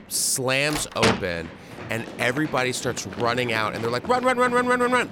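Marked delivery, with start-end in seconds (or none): 4.1-5.1 high, louder mock yell of run; retold yell. Friends bursting out the door, high mock panicked yell. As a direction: shout it like fleeing in panic.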